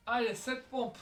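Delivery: high, loud coach call; shouted count. Real, not acted. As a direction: bark the rep count out. Coach calling push-up count.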